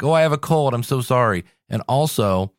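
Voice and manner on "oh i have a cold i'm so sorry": higher, sheepish apology; mock apologizing host. Host mocking podcasters who apologize for a cold, apologetically. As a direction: whimper an overdone apology. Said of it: "people apologize for, like".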